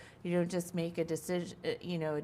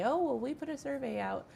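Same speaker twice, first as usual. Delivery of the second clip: higher-pitched mock excuse, easing back down; imitating survey makers' excuse; 3 semitones higher than usual. Farmer quoting survey makers who skipped the follow-up, higher mock excuse. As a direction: quote their excuse in a lightly mocking higher voice. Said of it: "They'll say".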